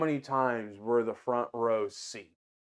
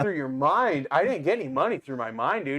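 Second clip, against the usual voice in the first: higher-pitched, mildly exasperated disbelief; incredulous retort; 5 semitones higher than usual. Retold or imitated. Staff member answering customer's mind-money claim, incredulous. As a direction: push back, baffled, with the pitch lifted.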